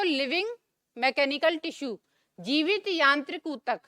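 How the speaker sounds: slow, word-by-word dictation of जीवित यांत्रिक ऊतक; dictating जीवित यांत्रिक ऊतक slowly. Shown as a demonstration. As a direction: spell it out slowly for students to write. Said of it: "collenchyma के लिए लिखो".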